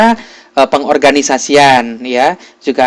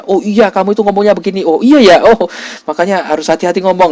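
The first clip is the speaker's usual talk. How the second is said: quick acted realization; 4 semitones higher, faster than usual. Acting out a peer evaluation dialogue.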